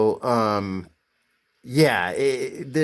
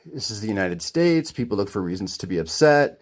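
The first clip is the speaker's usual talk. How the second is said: lower, measured calm; acting out calm restraint, pitched down; retold calm; 4 semitones lower than usual. Customer stepping back to reason with shop owner, calmly. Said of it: "real calmly".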